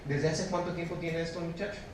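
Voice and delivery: soft, unhurried asking; composed, softened quoted question; calm question. Retold or imitated. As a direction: ask gently, as a calm Jesus retold. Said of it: "Jesús le pregunta con toda la calma del mundo".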